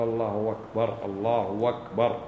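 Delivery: الله أكبر with the u lengthened toward a w, said slow; waw-like takbir. Shown as a demonstration. Teacher demonstrating the lengthened damma error. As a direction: let the u of الله slide into wa before أكبر. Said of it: "حرف الواو بينهما".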